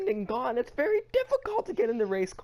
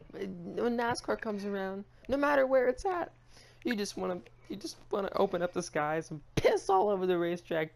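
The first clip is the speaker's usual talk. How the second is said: ordinary delivery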